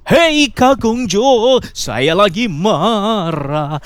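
high, loud, slow mock anger; mock angry yell. Shown as a demonstration. Host demonstrates to caller how an angry person sounds, hammed-up high loud yell. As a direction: shout it out as a hammed-up angry outburst. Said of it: "masa gini nih contoh ya".

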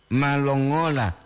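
slow "malongola" with "ma" held; maa-longola, first vowel drawn out; long double A. Shown as a demonstration. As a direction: stretch "ma" in "malongola". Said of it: "Dua atau ma".

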